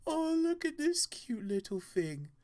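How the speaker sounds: high cooing over something tiny; doting commander. Acted. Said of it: "commander's eyes ... seems to widen and glisten".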